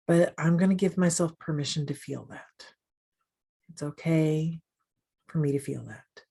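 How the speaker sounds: calm meditation guide, long pauses between phrases; guided meditation. Acted. Guide leading people-pleasers through a meditation, calm and measured. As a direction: guide gently, unhurried, leaving space after each phrase.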